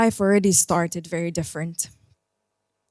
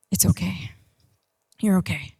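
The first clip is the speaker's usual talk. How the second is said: soothing inner voice; 4 dB quieter than usual. Retold or imitated. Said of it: "the voice that says".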